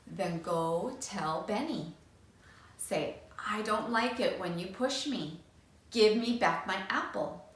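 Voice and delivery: steady and unhurried guidance; slow, firm. Acted. Teacher guiding the boy, slow and firm. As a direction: lay it out firmly, no rush. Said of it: "In a slow, firm voice".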